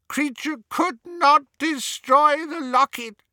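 high, frantic elf voice building to a wail; house-elf near sobbing. A narrator's reading. Elf confessing he failed his orders, breaking down. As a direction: stammer and choke, then wail the last word. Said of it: "Kreacher began to sob so hard".

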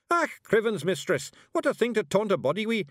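high, loud Scottish shout; a small Scots warrior bellowing in outrage; shouting Feegle. A narrator's reading. Rob Anybody shouts at Miss Level in a high, loud Scots voice. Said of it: "he shouted".

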